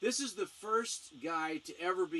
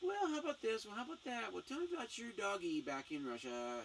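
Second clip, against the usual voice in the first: fluffy and gentle; 6 semitones higher than usual. Retold or imitated. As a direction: coax her along gently, very high on the first line. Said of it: "He's talking kinda fluffy".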